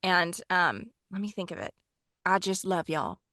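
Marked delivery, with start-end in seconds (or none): 2.2-3.2 Sonny. Acted. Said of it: "so I could get his accent".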